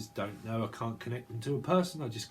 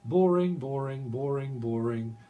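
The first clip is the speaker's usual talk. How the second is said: mock complaint; 3 semitones higher, 4 dB louder than usual. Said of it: "Someone's kinda like".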